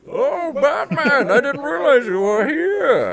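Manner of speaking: very high, loud, slow gushing; hammed-up swoon; swooning damsel. Mock damsel greeting Batman.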